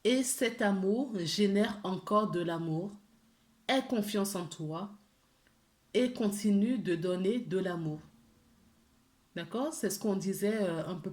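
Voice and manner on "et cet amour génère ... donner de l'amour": gentle, measured reading of an angel card message, partly slowed. Acted. Tarot reader reads the angels' message to viewers, gently and measured.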